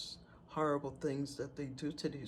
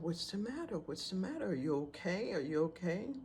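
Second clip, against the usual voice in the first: concerned asking; 4 semitones higher than usual. Retold or imitated. Asking screaming woman in concern.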